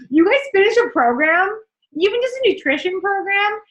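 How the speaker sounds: excited. Real, not acted. Hyping up the rewards.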